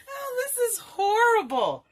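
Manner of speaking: high, loud wail of dismay; mock despair. Real, not acted. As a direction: cry out in dismay, slowly. Craft going wrong, cries out.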